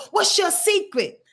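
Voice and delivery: high-pitched pleading mimicry; mock prying question. Victims asking the strong people, mock prying. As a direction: imitate someone angling for the secret.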